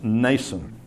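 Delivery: "Nason" said slowly with the M left silent; pronunciation of Nason. Shown as a demonstration. Preacher guesses at the name for his listeners, silent-M Nason. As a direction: say "Nason" starting straight on the N. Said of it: "whose name is pronounced".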